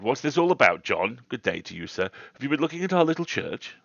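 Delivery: lightly voiced country rector; rector striking in. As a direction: break in as the genial parish rector. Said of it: "the rector struck in and said".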